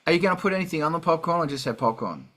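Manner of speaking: normal talking voice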